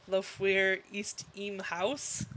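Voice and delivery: slow, tentative German pronunciation; unsure stab at a German accent; attempted German. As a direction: try it in halting German. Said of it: "I don't do German".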